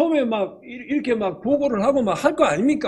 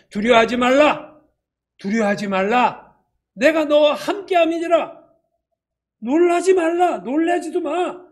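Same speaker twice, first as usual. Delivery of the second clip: God's firm command; 4 semitones higher than usual. Acted.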